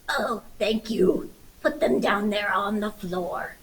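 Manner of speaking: put-on wolf faking an old lady, slow at first; lightly voiced wolf posing as grandma; hoarse fake grandma. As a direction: rasp it out like a sick granny. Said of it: "your voice sounds very hoarse".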